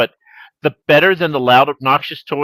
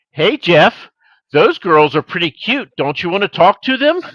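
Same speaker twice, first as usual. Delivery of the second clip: teasing; 3 semitones higher, 3 dB louder than usual. Retold or imitated. Uncle needling his embarrassed nephew.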